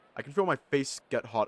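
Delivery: plain reading voice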